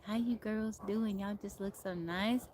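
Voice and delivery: slow imitation of an older gentleman's country twang; drawn-out country-twang greeting; retold in an older man's slow country twang. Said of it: "he had a country twang".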